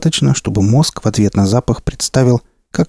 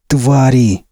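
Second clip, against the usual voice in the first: blurted curse; 3 semitones higher than usual. Acted. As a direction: fire the word out in rage. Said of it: "вновь выпалил он".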